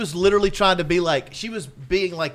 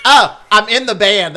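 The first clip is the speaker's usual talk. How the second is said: louder, higher, slow mocking whine; 5 semitones higher, 9 dB louder than usual. Rocker mocking a fan who lied about being in the band. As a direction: parody a dumb fan bragging.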